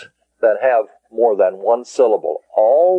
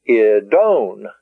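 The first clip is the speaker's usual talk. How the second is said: "I, don" with the weight on DON; short "I", then a longer accented "don"; accent on last syllable. Shown as a demonstration. Teacher correcting "I, don", accent on last syllable. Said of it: "because the accent is on the own".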